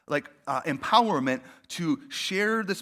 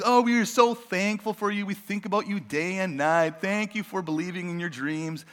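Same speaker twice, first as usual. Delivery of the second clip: gushing greeting. Retold or imitated. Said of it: "starts out like".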